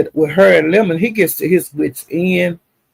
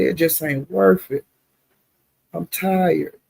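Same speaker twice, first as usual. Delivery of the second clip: mild weary frustration; 4 dB quieter, slower than usual. Retold or imitated. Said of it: "you could hear the frustration in his voice".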